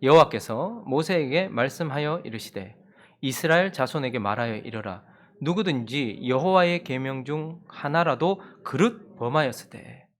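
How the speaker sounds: slow, measured Bible reading; scripture reading. Acted. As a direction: read the verse solemnly.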